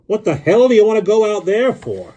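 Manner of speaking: very high, loud holler; astonished shout. A narrator's reading. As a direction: bawl it out in rough disbelief. Foul-mouthed driver is astonished.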